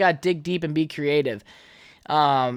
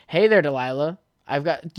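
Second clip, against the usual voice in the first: put-on old tone voice. Shown as a demonstration. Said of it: "in my old tone voice".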